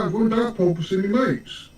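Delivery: lightly put-on British lad; easygoing British pub voice; British accent. Shown as a demonstration. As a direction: demo it in British. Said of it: "all gonna talk in a British accent".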